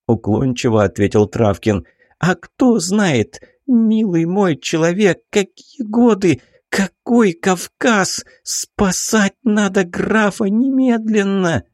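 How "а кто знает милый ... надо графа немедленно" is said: high, slow, insistent lady's voice; urgent baroness. A narrator's reading. Baroness urges Travkin to save the count, high and slow. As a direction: drag each word out high, demanding action now.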